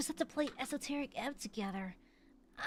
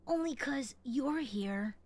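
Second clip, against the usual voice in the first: put-on anime boy voice; 3 semitones lower, slower than usual. Shown as a demonstration. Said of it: "generic, like, anime boy voice".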